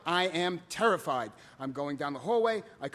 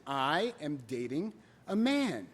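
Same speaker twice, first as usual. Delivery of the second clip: "I am dating a man" slowly, word by word, lower; slow repeat; 3 semitones lower, slower than usual. Retold or imitated. Son repeating himself to his father, slowly. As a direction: spell out "I am dating a man" with a pause before "a man". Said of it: "So I repeated myself slowly".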